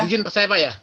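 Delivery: choppy, cutting-out connection voice; broken-up audio like a bad call; glitching robot. Real, not acted. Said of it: "suaranya putus-putus". (suara putus-putus seperti robot)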